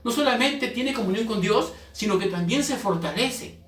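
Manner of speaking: forceful preacher, stressing key words; preaching. Real, not acted. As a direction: drive each point home to the congregation.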